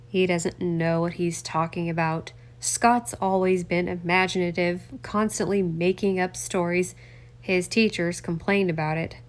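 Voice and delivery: lightly voiced older man brushing it off; a hint of a defensive congressman.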